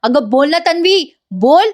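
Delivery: mildly voiced betrayed lover pressing for an answer; heartbroken lover's reproach. Ashwin confronts his deceiving lover, mildly hurt and pleading. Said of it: "Ashwin तिला म्हणतो".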